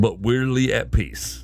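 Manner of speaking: slow, lingering on weirdly; slow dramatic reading. Shown as a demonstration. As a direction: draw out the punchline slowly. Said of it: "Should I put on my dramatic reading voice?".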